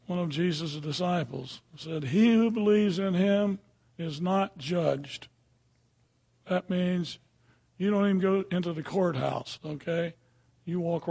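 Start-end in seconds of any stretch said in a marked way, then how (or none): 2.0-5.3 scripture reading. Acted. Preacher reads verse slowly, emphatic.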